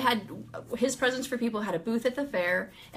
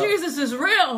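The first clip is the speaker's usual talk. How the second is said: slow, loud, higher-pitched cry of wonder; amazed exclamation; 5 semitones higher, 7 dB louder than usual. Retold or imitated. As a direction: proclaim it loudly in astonishment. Repeats realisation as loud exclamation.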